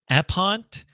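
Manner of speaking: "app font" said as "app-hont", rising; breathed H replacing the F in "app font"; guessing a pronunciation. Shown as a demonstration. Streamer guessing at a font name, "app font" as a questioning "app-hont". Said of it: "not sure how they pronounce it".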